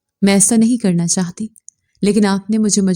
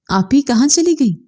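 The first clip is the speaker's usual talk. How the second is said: worried; 5 semitones higher than usual. Acted. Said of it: "परेशानी से कहते".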